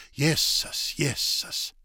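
voiceless, dismayed whisper; whispered exclamation. A narrator's reading. Man alone fearing Julei's reaction, dismayed whisper. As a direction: whisper the oath twice under your breath. Character dismayed, muttering to himself.

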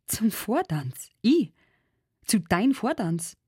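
rising, incredulous repeats; astonished. A narrator's reading. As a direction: she can't believe he asks. Ensel amazed by invitation. (ungläubig erstaunt)

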